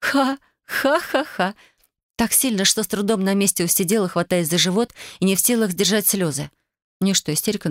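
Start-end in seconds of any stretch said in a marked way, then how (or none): 0.0-1.5 high, slow burst of helpless laughter; guffaw. A narrator's reading. Katya bursting into uncontrollable laughter. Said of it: "А Катя вдруг захохотала".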